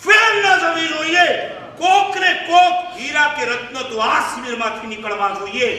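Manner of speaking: high, loud fiery exhortation; rally the whole hall; rousing preaching. Acted. (જોશભર્યું પ્રવચન)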